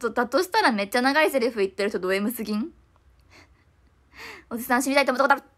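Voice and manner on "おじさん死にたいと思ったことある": stage line quote. Retold or imitated. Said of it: "人たちすごいめっちゃ".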